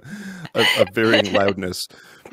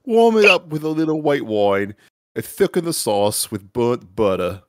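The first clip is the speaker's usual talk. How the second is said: put-on New England accent. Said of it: "it is actually a New England accent now".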